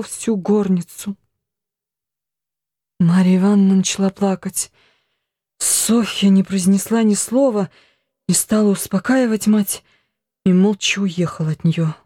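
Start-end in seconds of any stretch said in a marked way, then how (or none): none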